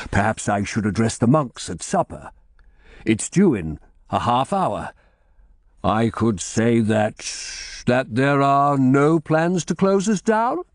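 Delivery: lightly voiced old abbot, slowing as hope builds; a hint of an eager, hopeful abbot.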